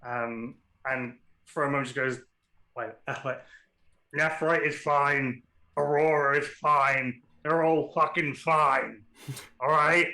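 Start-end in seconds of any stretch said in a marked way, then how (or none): 4.2-10.1 gruff Northern English officer; Northern accent. Acted. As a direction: reassure them, gruff and blunt. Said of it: "I've changed the accent".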